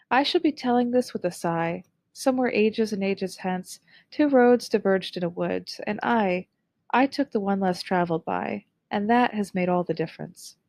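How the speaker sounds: thoughtful poem reading with a touch of somber weight; reflective somber reading. Shown as a demonstration. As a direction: let each line sound like a hard choice looked back on. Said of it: "the tone of this excerpt is reflective and possibly even somber".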